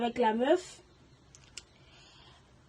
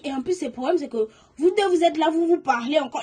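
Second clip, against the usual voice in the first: rising, louder indignation; indignant reproach; 3 semitones higher, 5 dB louder than usual. Retold or imitated. Girl reproaching her boyfriend and best friend, indignant. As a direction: build the outrage as you go.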